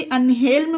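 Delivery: "अनहेल्म" with the L heard before M; "अनहेल्म", L not silent; sounded L. Shown as a demonstration. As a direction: voice both L and M in "अनहेल्म". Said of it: "यहाँ पर एल silent नहीं है".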